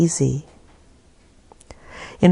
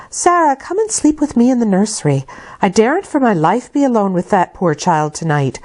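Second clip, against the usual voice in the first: Bessie voice. Acted. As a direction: offer it gently as the maid.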